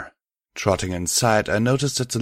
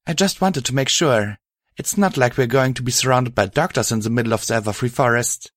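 lightly higher caring female voice; a partner checking gently; Violet voice; 4 semitones higher, faster than usual. Acted. Violet continues.

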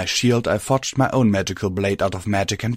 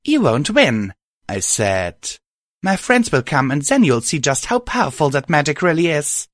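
high defiant; 6 semitones higher than usual. Acted. Heroine defiant while pinned.

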